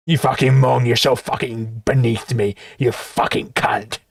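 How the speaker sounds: low sneer fading to a whispered insult; smug, then hiss the end; mocking Dave. Mocking Dave's arrogant voice.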